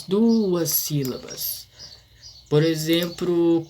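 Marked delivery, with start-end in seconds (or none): 0.0-1.7 "duas" stretched slowly over its two vowels; slow, lengthened "duas"; drawn-out emphasis. Shown as a demonstration. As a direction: draw out "duas" before "sílabas". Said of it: "Dissílaba é quando duas".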